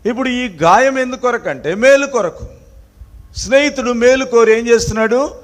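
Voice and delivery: high, emphatic sermon delivery. Real, not acted. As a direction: drive each point home to the congregation.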